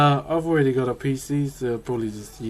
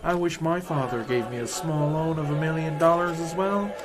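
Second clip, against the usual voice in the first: American accent; 4 dB quieter than usual. Shown as a demonstration. Streamer showing chat his first American accent, mock American. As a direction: introduce yourself in a careful fake American voice. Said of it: "Here I am trying my first American accent".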